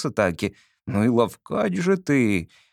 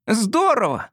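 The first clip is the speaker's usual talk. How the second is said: put-on higher, delighted boy's cry; thrilled shout; 10 semitones higher, slower than usual. A narrator's reading. Boy cheering at the stranger's dare, thrilled. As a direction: shout it with pure joy. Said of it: "восторженно крикнул я".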